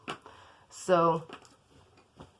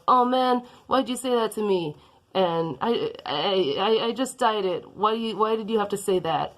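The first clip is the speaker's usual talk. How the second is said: hurt protest; 4 semitones higher than usual. Acted. Hurt reply to hair insult.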